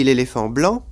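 "l'éléphant blanc" as one group, accent only on "blanc"; group-final accent on "blanc"; stress on BLANC. Shown as a demonstration. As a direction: let "éléphant" run unaccented into a stressed "blanc". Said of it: "l'accent est passé sur blanc".

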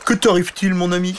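high, kindly questioning creature; curious dragon. A narrator's reading. Dragon to weeping little knight, curious and friendly. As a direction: lean in curiously. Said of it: "avec curiosité".

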